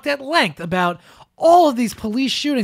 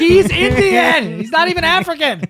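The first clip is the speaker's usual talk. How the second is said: yelled point; 9 semitones higher, 5 dB louder than usual. Real, not acted. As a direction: spell it out loudly. Yelling the obvious point.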